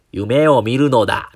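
slow, drawn-out actor mimicry; 窪塚洋介 impression. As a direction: lightly imitate a film star's distinctive line delivery. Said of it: "モノマネみたいなしてしまいました". (俳優のセリフ回しを軽く真似て、ゆっくりと)

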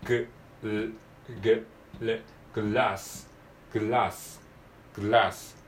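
グ and ル separately, then blended into グラス with an L; two-consonant drill. Shown as a demonstration. Teacher showing learners two consonants in a row, carefully sounded. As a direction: break グラス into G and L, then join them. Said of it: "子音が二つ続きます".

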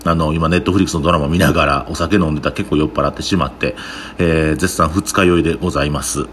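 groggy hungover voice; sluggish, a little worn out. Real, not acted.

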